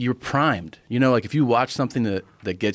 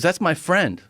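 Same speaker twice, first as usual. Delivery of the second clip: indignant objection; 8 semitones higher than usual. Retold or imitated. Friend objecting, retold.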